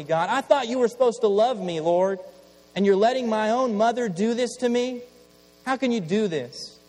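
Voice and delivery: loud, high pleading cries to God; anguished cry. Acted. Burned boy pleads with God, loud anguished cry. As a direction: cry out like a betrayed child.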